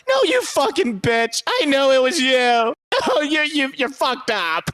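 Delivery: lightly hammed-up high betrayed wife on the phone; mock bad actress. Mocking the actress playing a cheated-on mom on the phone. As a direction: overact a wronged wife, slowing down. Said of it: "the acting prowess of a white mom".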